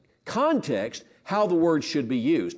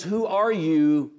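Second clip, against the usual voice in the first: puzzled who are you; 3 semitones higher, slower than usual. Retold or imitated. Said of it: "with a different tone of voice".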